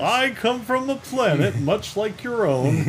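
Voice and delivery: high, slow grand proclamation; co-host continuing the Superman parody, grandly; mock heroic Superman. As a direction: ham up the noble alien hero.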